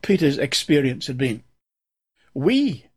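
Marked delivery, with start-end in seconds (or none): 2.3-2.9 "We" lifted and held apart; stress on WE. Shown as a demonstration. Preacher reading to his flock, stress on "We". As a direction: lean on "We" to point at Peter. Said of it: "I'm going to emphasize the word "we".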